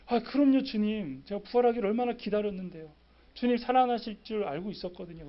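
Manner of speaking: eager, quick, high-pitched answer; eager reply. Pretend. Peter answering Jesus eagerly, fast and high. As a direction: gush your love back at once. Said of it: "막 이렇게 해야 되는데".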